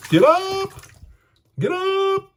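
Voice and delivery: loud, high retold yell; high-pitched shout of a dad waking his hungover son. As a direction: bark him awake like an angry dad. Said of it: "Real loud".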